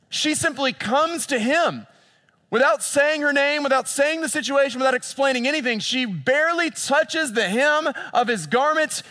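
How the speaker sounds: high, loud, driving sermon voice; fervent preaching. Acted. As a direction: preach it at full force. Preaching at full force.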